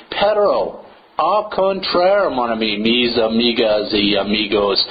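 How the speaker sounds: playful Spanish and French words; hammed-up multilingual flourish; mock multilingual. Shown as a demonstration. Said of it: "See, I'm multilingual".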